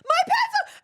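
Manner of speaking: put-on high, loud anguished shriek of a child; mock child shriek; child's shriek. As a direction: shriek it like a kid seeing her treasure taken. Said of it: "And then Rafa goes".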